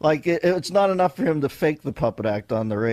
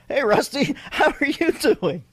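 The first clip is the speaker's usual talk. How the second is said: man voice; 10 semitones higher than usual. Pretend. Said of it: "Let me give you my man voice".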